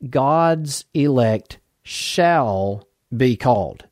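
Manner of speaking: slow, deliberate phrase with "shall" set apart and drawn out; stress on shall. Real, not acted. Preacher stressing one word of a doctrinal statement, "shall" slow and weighty. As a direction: lean on "shall", pausing around it before "be called". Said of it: "I emphasize that word".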